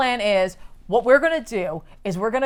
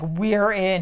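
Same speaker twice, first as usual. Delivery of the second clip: low gravelly growl; 3 semitones lower, 4 dB quieter than usual. Retold or imitated. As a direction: rasp the words out gravelly. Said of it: "he gets, like, gravelly voice again".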